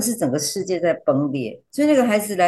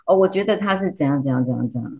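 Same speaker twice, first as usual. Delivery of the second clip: rote recital, trailing lower; reading from a script; 3 semitones lower than usual. Retold or imitated. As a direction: imitate reading aloud off a script. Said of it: "好像在念， 念稿子".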